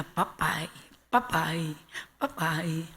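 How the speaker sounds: low-key, repeated first word with little gaps; lightly voiced baby talk. Father quietly teaching baby papai, understated imitation. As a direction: say "papai" softly, one careful word at a time.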